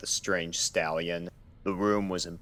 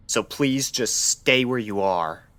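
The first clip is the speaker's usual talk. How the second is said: urgent plea; 5 semitones higher, 5 dB louder than usual. Acted. Doctor urges her stay.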